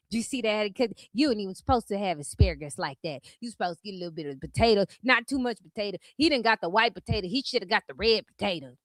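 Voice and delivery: low, soft, quick critical chatter; mock gossip. Imitating critics picking over someone's dinner, mock gossip.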